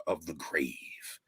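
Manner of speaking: dramatic whisper. Acted. Reading the poem's grim ending to the crowd as a whisper. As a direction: let the last words die into a whisper. Dramatic poem line, dropping away.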